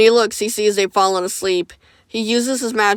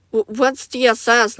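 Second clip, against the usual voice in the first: shaky ask; 3 semitones higher than usual. Acted. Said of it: "Nightmare manages to ask".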